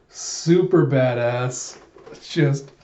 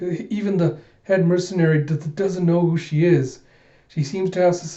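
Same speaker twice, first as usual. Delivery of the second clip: higher, stammering nervous warning; stuttering Yorg; 4 semitones higher than usual. Acted. Yorg warns Figure about Alita, nervous stammer. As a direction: trip over every first sound, higher up.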